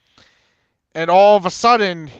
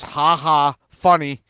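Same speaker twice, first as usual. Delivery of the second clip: dry, spoken-out mock laughter; sarcastic fake laugh; much slower than usual. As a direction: imitate an unamused teacher's "ha ha". Teacher's sarcastic fake laugh, retold.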